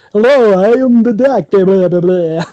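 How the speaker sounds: put-on Transylvanian accent. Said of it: "does he have a Transylvanian accent".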